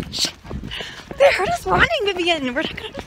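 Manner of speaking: hushed shushing, get down; urgent whisper. Pretend. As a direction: whisper so nobody hears. Hiding from friends in maze.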